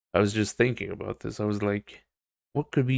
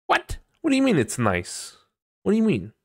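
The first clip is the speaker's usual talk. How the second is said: baffled; 10 semitones higher than usual. Retold or imitated. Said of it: "And you're like".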